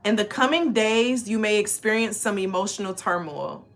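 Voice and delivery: measured, even reading of the card's meaning; card text read aloud. Acted. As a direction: read the guidebook passage out like a small ceremony.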